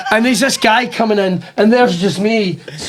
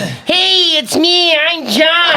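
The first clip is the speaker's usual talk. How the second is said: mock proud Scot; 8 semitones higher, much slower than usual. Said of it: "he's like".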